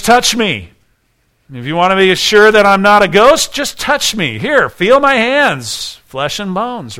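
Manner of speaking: voicing Jesus. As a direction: plead with them to touch and see. Preacher voicing Jesus' invitation.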